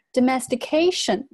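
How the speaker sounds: domestication with main stress on the "ca" syllable. Shown as a demonstration. English teacher shows word stress, domestication stressed on "ca". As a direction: lean on the long A in domestication. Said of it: "重音呢在这里，A".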